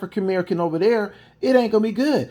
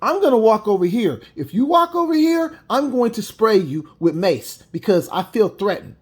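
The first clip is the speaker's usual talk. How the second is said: clear warning; 2 semitones higher than usual. Shown as a demonstration. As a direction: state the threat calmly but clearly. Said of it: "you could tell her clearly".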